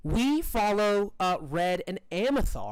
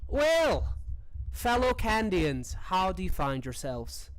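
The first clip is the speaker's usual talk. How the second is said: hearty captain Annabelle; 2 semitones higher, slower than usual. Acted. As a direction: greet them with a drawn-out, slightly hammed-up hello. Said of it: "Annabelle nods and says".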